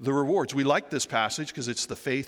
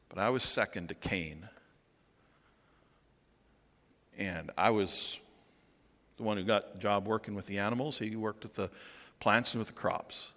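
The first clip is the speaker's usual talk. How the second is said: speaking as Abel; 3 semitones lower, 4 dB quieter than usual. Acted. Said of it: "I wonder if Abel might say".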